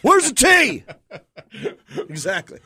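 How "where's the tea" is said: high, loud hick voice shouting for Bojangles; hammed-up redneck hollering for food. Redneck product placement bit, loud hick shout. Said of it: "product placement".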